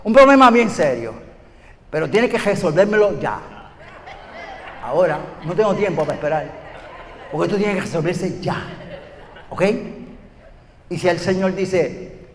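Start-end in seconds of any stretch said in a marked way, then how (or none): 0.0-9.6 impatient prayer. Retold or imitated.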